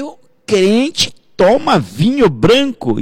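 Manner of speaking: high, slow mock disbelief; retold incredulous question. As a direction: stretch out the question as if scandalized. Acts out his shocked misunderstanding. (pergunta incrédula e encenada, aguda e arrastada)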